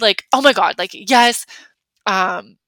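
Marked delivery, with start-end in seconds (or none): 0.3-1.5 louder, eager oh my God, yes; thrilled acceptance; excited yes. Shown as a demonstration. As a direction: burst out with delight.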